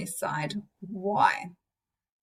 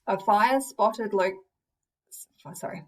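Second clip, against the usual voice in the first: stumbling over the words; halting speech. Real, not acted. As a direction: trip up and break off. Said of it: "start again".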